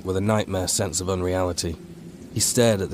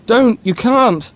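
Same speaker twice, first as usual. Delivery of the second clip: much higher, loud shouted command; furious demand; 8 dB louder, slower than usual. A narrator's reading. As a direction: scream it to stop him. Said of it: "O'Neill demanded".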